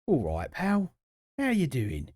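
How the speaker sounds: exaggerated Cockney geezer greeting; geezer accent. Shown as a demonstration. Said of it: "In a geezer accent".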